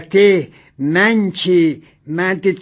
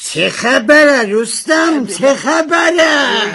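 raised pitch, drawn-out protest; alarmed scolding; 5 semitones higher, slower than usual. Acted. Passenger protests the driver's speed, alarmed scolding. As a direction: protest in alarm, stretching the question.

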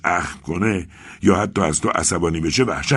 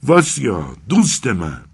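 higher, louder glad call; joyful cry; 6 semitones higher, 5 dB louder, slower than usual. Acted. Arkady joyfully calls out to his friend Vasya. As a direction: burst out in happy relief. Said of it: "آرکادی با شادی فریاد زد".

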